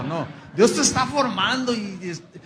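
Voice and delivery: ordinary talk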